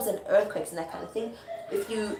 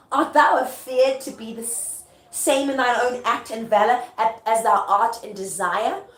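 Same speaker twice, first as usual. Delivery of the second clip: raised, emphatic questioning; declaimed taunt; goading stage speech; 4 dB louder than usual. Acted. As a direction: challenge him theatrically, slowing at the end. Performs Lady Macbeth goading her husband.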